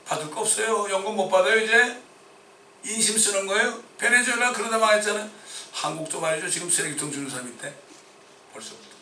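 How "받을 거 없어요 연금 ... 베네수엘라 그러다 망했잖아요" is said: louder, higher indignant declaration; indignant loud proclamation; fervent preaching. Real, not acted. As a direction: warn the flock with alarm. Preacher decrying pension spending.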